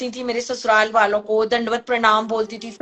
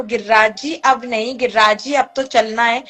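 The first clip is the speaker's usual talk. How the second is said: smiling farewell; 2 semitones lower than usual. Retold or imitated. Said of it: "मुस्कुरा के बोलती है".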